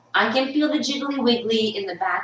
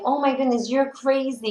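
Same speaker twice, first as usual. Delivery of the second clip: high-pitched, incredulous; mock disbelief; 6 semitones higher than usual. Imitating the trainer calling her crazy, mock disbelief. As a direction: imitate someone amazed, voice lifted high.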